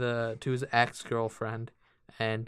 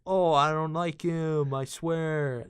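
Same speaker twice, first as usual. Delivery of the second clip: higher-pitched, exaggerated denial; mock protesting girlfriend; 4 semitones higher than usual. Mocking girlfriend denying she likes Eddie, hammed-up protest. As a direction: send up her protest in a raised pitch.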